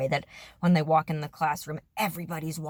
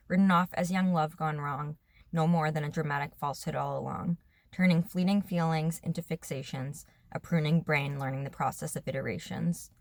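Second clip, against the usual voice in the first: measured, lightly cadenced poem recital; poem reading. Acted. Writer reading her own poem to viewers, measured recital. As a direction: read your own verse with understated rhythm.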